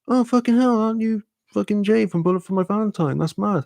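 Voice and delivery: high-pitched starstruck exclamation; acted-out astonished recognition; retold amazement. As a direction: pitch it right up, recognizing someone famous. Retold recognition of band member.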